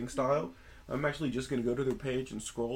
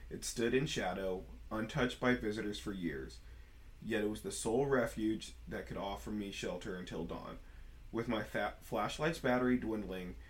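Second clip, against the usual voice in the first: storytelling voice. Shown as a demonstration. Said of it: "storytelling voice for realsies this time".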